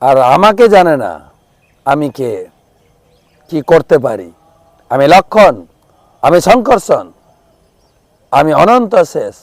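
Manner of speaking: high, loud enraged outburst; furious shout. Acted. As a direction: Balaram roaring at whoever tied his brother. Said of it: "চিৎকার করছেন". (রাগে চিৎকার)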